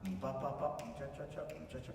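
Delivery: light vocalised orchestra vamp; plain oom-pah accompaniment. Shown as a demonstration. Coach mimics what the orchestra gives, plain oom-pah. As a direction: tick out a bare accompaniment figure. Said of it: "not so much".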